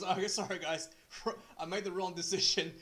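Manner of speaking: retold apology broken by laughter; laughing referee. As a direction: play the referee laughing it off as he says sorry. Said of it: "the referee goes".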